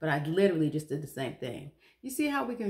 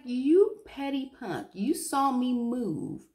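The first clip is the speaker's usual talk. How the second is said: higher, louder and slow mock outrage; salty indignation; 7 semitones higher, 5 dB louder, slower than usual. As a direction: spit it out like a wronged neighbour. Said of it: "I was so salty".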